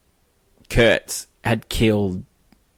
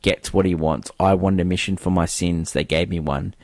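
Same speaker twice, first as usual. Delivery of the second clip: low, measured voiceover read; voiceover narration; 4 semitones lower than usual. Acted. Host quoting Willard's voiceover, lowered and measured. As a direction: retell Willard's lines, slightly lowered. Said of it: "Willard with the voiceover goes".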